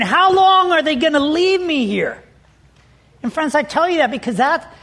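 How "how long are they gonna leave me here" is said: retold anxious frustration. Stuck boy wondering about his buddies, frustrated and anxious. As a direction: wail it mildly, as a remembered worry. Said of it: "angry and frustrated and anxious and wondering".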